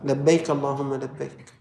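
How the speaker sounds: devout reply. Shown as a demonstration. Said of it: "شو لازم نقول؟".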